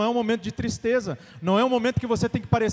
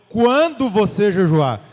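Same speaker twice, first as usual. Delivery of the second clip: "Quando você jejuar" slow and louder, punching "Quando"; stress on quando; 6 dB louder, slower than usual. Shown as a demonstration. Preacher insisting on the exact word, slow and loud. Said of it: "Não, ele falou".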